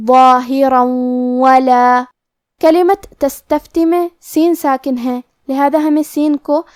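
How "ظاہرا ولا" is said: ظاہرا ولا joined with a nasal doubled و; idgham with ghunna. Shown as a demonstration. Teacher demonstrating merged reading to students. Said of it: "غنہ اور تشدید کے ساتھ ادا کریں".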